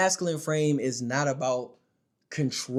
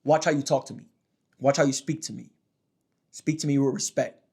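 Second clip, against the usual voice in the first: a touch of bass, steady and assertive. Shown as a demonstration. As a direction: tell her straight up, firmly. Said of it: "Put as much bass in your voice".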